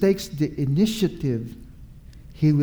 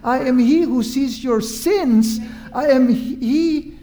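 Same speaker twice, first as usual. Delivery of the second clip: slightly raised, insistent litany of reassurance; lightly voiced reassuring Jesus; 4 semitones higher than usual. Jesus telling frightened disciples who he is, earnest reassurance. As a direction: build assurance through each repeated phrase.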